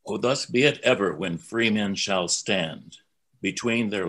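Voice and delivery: slow, stately reading of a patriotic anthem; measured, reverent spoken anthem; solemn verse recitation. Real, not acted. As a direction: recite it line by line, with weight and pauses. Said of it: "So I'm gonna read it".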